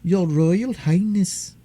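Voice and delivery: slow, proper and haughty. Acted. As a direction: say it with stiff dignity. Nurse insists on the title.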